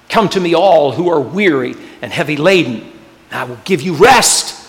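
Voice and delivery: reassuring scripture. Acted. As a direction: soothe with the promise. Answering prayer with scripture.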